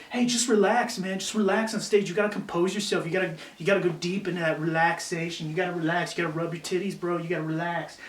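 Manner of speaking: lightly imitating a chill bro; mocking industry advice. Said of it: "make a little bitch out of you and say".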